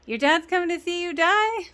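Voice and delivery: imitating an incredulous friend; incredulous question. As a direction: retell it as a baffled question. Acted incredulous reply in retold scene.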